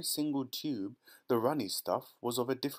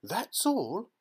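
proud Wonka; 10 semitones higher, 4 dB louder than usual. A narrator's reading. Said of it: "gazing proudly at the result".

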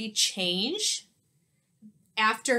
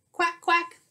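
higher, louder playful duck quacks; duck quacking; 8 semitones higher, 5 dB louder than usual. Acted. Teacher quacking along with the park ducks, playful.

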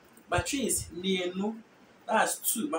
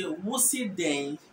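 Twi "Wosi den", slowly drawn out; Twi accent; much slower than usual. Shown as a demonstration. Teacher giving an example of Twi, Twi accent. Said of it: "Twi will say".

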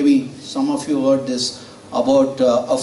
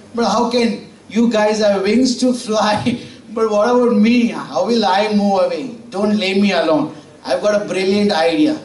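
frog character; 4 semitones higher than usual. Acted. Frog pleading in fable.

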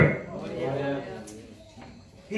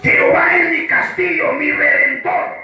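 with force; 8 semitones higher than usual. Shown as a demonstration. Pastor showing church how to say it, with force. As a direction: declare it with full force. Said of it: "así con fuerza".

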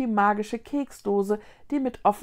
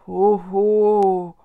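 timid ghost hoot; 10 dB louder than usual. Acted. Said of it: "machte Glotzer zaghaft".

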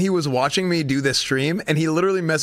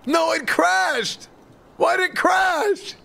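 frustrated yell; 9 semitones higher, much slower than usual. Real, not acted. The streamer yells in higher pitch as his game crashes. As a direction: shout it out in disbelief.

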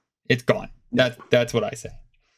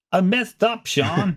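higher-pitched repeat, hammed up; playful dismayed admission; 6 semitones higher, slower than usual. Real, not acted. Host admits the wrong list to co-host, high mock dismay. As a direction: confess it again in a high, plaintive voice.

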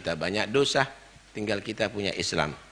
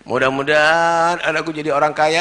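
imitating a parent's prayer; 9 semitones higher, 11 dB louder than usual. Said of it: "Doanya apa?".

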